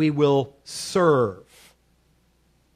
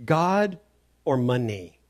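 weighty pause between "God" and "or money"; emphatically clear; slower than usual. Retold or imitated. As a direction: lay out "God" and "money" as two separate choices. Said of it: "emphatically clear".

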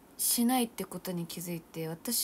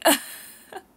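loud laugh after a brag; breathy burst of laughter; 14 dB louder than usual. Real, not acted. Laughing at her own boast to viewers. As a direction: laugh at yourself, a bit embarrassed.

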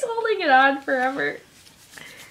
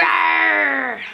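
playful monster roar. Pretend. Monster play with toddler.

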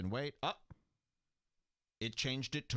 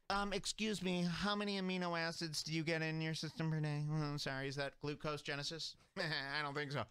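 higher-pitched, fussy fake politeness; mock polite debater; 4 semitones higher than usual. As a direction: mimic a pedantic nutrition arguer. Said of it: "This is the new food fight".

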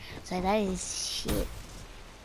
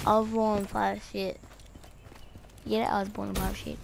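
holding tongue; much faster than usual. Pretend. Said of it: "but holding your tongue".

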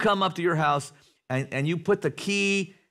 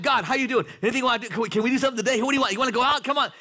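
high, bubbling, eager like a happy dog; eager greeting to God; 9 semitones higher, much faster than usual. Retold or imitated. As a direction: greet God like a friend you can't wait to see. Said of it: "That when you say".

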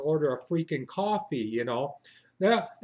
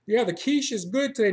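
pushy barista; 5 semitones higher, 4 dB louder than usual. Retold or imitated. Barista pushing quiche.

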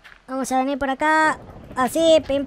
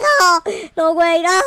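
louder, higher pleading no's; desperate cry; 3 semitones higher, 4 dB louder, slower than usual. Real, not acted. Gamer watching his house burn, pleading loudly. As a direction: beg it to stop, near tears.

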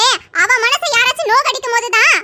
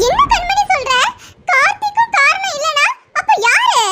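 higher, shocked question stressing Kanmani; stunned disbelief; 5 semitones higher than usual. Acted. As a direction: ask it as if the floor dropped away. Sister hears Karthik isn't the father. (அதிர்ச்சியுடன் கேள்வி)

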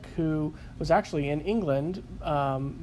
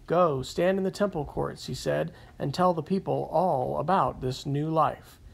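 steady, measured Bible reading, slightly raised; scripture reading. Shown as a demonstration. Podcaster reading Acts aloud before his sermon notes, measured scripture reading. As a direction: read the passage aloud to the listeners. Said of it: "I'll read the verses first".

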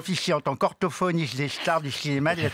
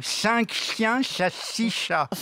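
slow tongue twister; 7 semitones higher, much slower than usual. Shown as a demonstration. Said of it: "à vous".

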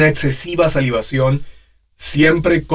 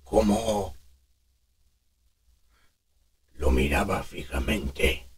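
smoking while talking; 5 semitones lower than usual. Shown as a demonstration. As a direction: talk as if drawing on a cigarette. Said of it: "como simulando que fuma".

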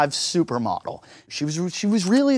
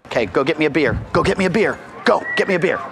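commanding the dog to fetch a beer; firm command, go get me a beer; faster than usual. Shown as a demonstration. Firm dog command to fetch a beer. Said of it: "Watch her, she'll come back".

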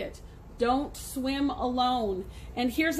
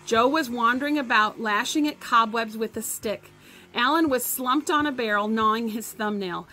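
reading a story aloud to the class; lively read-aloud voice; story narration. A narrator's reading. Teacher reads novel to class.

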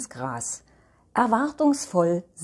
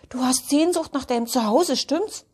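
high, quick questioning voice; high-voiced elf guessing the trouble; sympathetic elf; 6 semitones higher, faster than usual. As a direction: lift the pitch into a rising tag question. Elf gently questions homesick dog.

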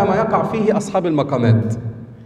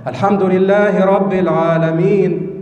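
middle jawab register. Shown as a demonstration. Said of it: "ده جواب".

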